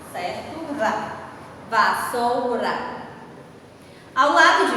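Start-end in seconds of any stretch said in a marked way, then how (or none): 1.7-2.7 "vassoura" slowly divided into its syllables; measured teacher's "vassoura", each syllable set apart. Shown as a demonstration. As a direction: sound out "vassoura" piece by piece. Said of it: "Como é que fica a separação de vassoura?".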